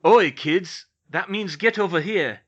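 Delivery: loud, high shout across the room; hollering the kids over, cheeky; big brotherly yell to round up the kids; calling out. Acted. George calling children to stage.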